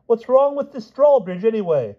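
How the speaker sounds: high, breathless-to-speak king rattling on; overexcited. A narrator's reading. King fires questions at friends, overexcited. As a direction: leave nobody room to interrupt. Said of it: "He was so excited that nobody else".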